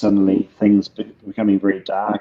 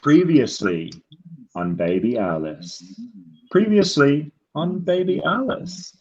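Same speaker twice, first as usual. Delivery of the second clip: varied trailer takes; 4 semitones higher than usual. Shown as a demonstration. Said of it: "One more, one more".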